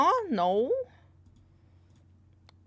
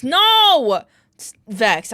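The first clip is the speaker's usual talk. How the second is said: sudden protest; 3 semitones higher, 18 dB louder, slower than usual. Real, not acted. Refusing to read chat.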